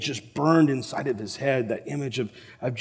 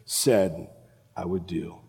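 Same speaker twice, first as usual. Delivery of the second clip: heartsunk regret; 3 semitones lower, 5 dB quieter than usual. Acted. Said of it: "Peter's heart was so sunk".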